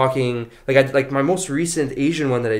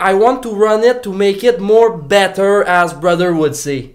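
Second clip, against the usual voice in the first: Latina character voice; 7 semitones higher, 7 dB louder, slower than usual. Acted. Doing his Latina character voice.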